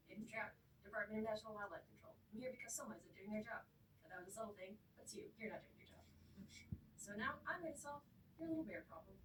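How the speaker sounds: brisk agent. Retold or imitated. Agent Trout introduces himself.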